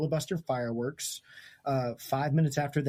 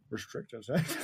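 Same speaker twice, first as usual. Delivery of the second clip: laughing; 4 semitones higher, slower than usual. Real, not acted. Laughing pun on restricted section.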